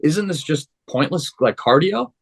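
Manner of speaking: lightly acted disbelieving gripe; incredulous protest. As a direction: complain like it's pointless busywork. Retelling protest against coach's order.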